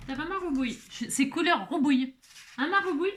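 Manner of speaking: high, cooing voice for the cat; pet talk. Real, not acted. Talking to her old cat, high cooing pet voice.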